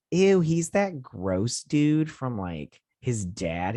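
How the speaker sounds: high, slow, grossed-out reaction; disgusted. Real, not acted. Vlogger reacting to the gross villain, disgusted. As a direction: pull back in disgust.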